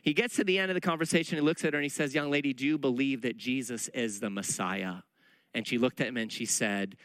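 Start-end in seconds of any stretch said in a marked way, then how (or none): 2.1-5.0 lightly voiced earnest Ray asking; Ray's question.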